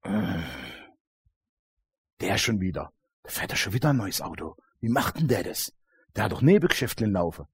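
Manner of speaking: envious grumbling. Retold or imitated. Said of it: "oder ist es so".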